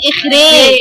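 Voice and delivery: إخراج with the a bent toward e, like إخريج; imala. Shown as a demonstration. Teacher shows the imala of إخراج to her student. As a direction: lean the long a of إخراج toward ya. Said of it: "لو جيت أميلها".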